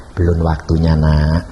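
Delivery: lightly voiced God, low and calm; gentle fatherly refusal. Voicing God's gentle reply. (jawaban rendah, lembut kebapakan)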